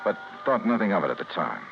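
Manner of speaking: hard-boiled detective telling the story; noir narration. Acted. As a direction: narrate it flat and knowing over the music. Noir narration over music.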